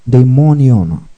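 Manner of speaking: daimonion with the MON syllable accentuated; stress on the O. Shown as a demonstration. Teacher introduces another Greek word, daimonion stressed on MON. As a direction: lean on the O after M in daimonion. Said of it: "the O after M accentuated".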